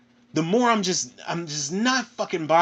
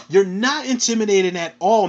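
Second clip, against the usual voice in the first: ordinary talk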